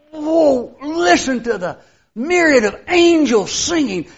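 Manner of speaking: a hushed, wide-eyed voice of amazement; awed. Retold or imitated. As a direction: gasp in wonder at the angels. Imagined awe on seeing heaven.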